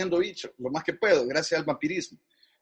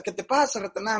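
put-on light Chilean accent, a touch higher; 3 semitones higher, faster than usual. Mónica Herrera asking the upset young copywriter, in a light Chilean accent. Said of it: "Ratanada se empieza a usar acento chileno".

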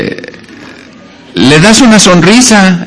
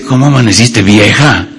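routine greeting; 5 semitones lower than usual. Retold or imitated. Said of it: "nada más que cambia el tono".

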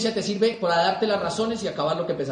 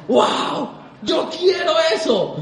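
"Wow" maravillado, alto y alargado, con risa; asombro entusiasta; 5 semitones higher, much slower than usual. Retold or imitated. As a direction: como un novato deslumbrado. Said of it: "uno decía". (novato que escucha los cassettes, asombrado y entusiasta)

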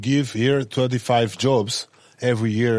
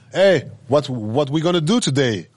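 louder, higher mock-eager question; eager guest; 4 semitones higher, 5 dB louder than usual. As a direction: imitate a guest pestering the host for plans. Voicing guests pestering their host.

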